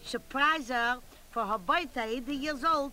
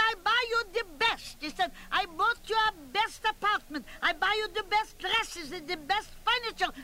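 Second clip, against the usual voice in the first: raised, higher, bragging son, fast at first; annoyed son; 6 semitones higher than usual. Retold or imitated. Son defending himself to his mother, raised and insistent. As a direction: insist on everything you bought her.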